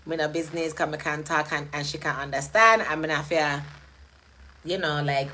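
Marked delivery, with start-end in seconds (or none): 0.1-2.8 relaxed, everyday Jamaican patois; casual patois lilt. Acted. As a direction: talk in easy Jamaican patois, as at home. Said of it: "I talk a lot of patois at home".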